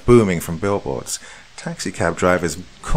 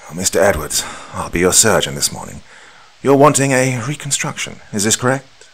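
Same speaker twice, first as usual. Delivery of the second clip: stressed and mildly out of breath; a little winded and hurried; 3 semitones higher, 3 dB louder than usual. Acted. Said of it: "His tone seemed stressed, and he was mildly out of breath".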